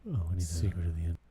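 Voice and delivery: a hint of soothing late-night radio; NPR voice. Shown as a demonstration. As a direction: purr it like a public radio host. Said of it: "do the N P R voice".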